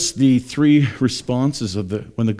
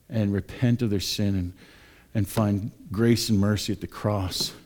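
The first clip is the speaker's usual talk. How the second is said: prayer. Real, not acted. Let's pray.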